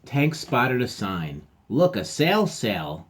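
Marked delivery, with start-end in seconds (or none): 1.7-3.1 excited discovery. Acted. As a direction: point and shout at the sail.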